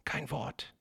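a secret whisper to his brother. A narrator's reading. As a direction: intruder hushes the twin, whispering. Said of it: "flüsterte derjenige".

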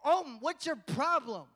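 loud, exasperated pretend complaint; mock mad. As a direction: demand an answer, drawing out the first question. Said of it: "He didn't get mad at them".

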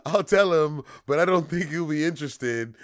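high, loud guard voice; haughty guard brushing them off; mock French guard. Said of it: "he's like".

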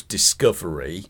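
discovery said in scare quotes, rising; air quotes. Shown as a demonstration. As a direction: put ironic quotes round discovery. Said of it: "I'm doing air quotes".

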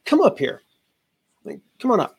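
inviting a volunteer up on stage, calling out. Retold or imitated. Calling audience member onto stage.

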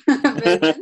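"Vergence" said slowly as VER-jence; clear pronunciation. Shown as a demonstration. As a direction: stress "Vergence" on its first syllable. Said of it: "G E N C E".

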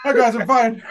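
lightly hammed-up hello; chirpy mock greeting. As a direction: imitate a high-voiced all-is-well greeting. Friend echoes the acted return.

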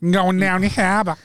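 jokey attempt at Boston; lightly put-on Boston accent. Shown as a demonstration. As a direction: have a rough go at Boston. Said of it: "Go on, we'll have a Boston accent".

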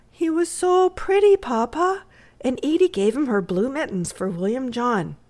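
put-on high-pitched, gushing little girl; eager child. Little girl telling Papa about the boy, eager. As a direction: tell it all in a high excited voice.

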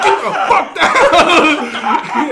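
loud, high, drawn-out order; mock instructor yell. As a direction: imitate a fed-up instructor shouting. Retold instructor ordering him off bar.

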